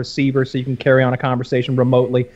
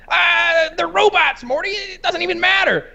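much higher dismissive cartoon voice; imitating Rick. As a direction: brush it off like a careless genius. Rick voiced in retold scene.

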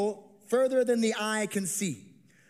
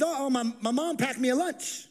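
put-on higher, eager child; light kid voice, a bit raised; little boy voice; 6 semitones higher than usual. Boy telling Andrew about his lunch, lightly high.

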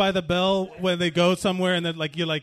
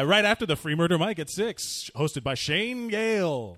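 announcer voice; 3 semitones lower than usual. Acted. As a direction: read it like a club plug. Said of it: "that's my announcer voice".

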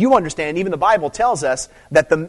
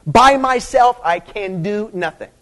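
"By" hit hard, high and loud, then the pitch drops; a preacher stressing the words of Jesus; emphatic; 6 semitones higher, 6 dB louder, slower than usual. Shown as a demonstration. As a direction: punch "By myself" hard, then settle. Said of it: "is that it's emphatic".

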